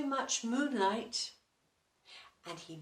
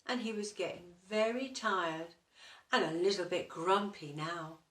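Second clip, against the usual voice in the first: ordinary delivery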